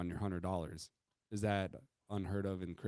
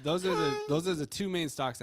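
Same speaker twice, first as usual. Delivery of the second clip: hammed-up tearful voice, louder; mock choked up; 7 semitones higher, 6 dB louder than usual. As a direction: fake sob through the words. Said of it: "choking up over there like he just lost a dog".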